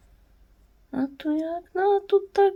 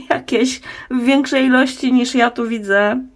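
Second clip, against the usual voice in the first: usual speaking voice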